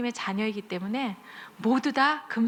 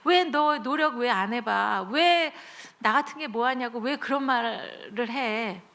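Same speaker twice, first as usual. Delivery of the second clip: scolding parent. Retold or imitated. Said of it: "엄마 아빠가".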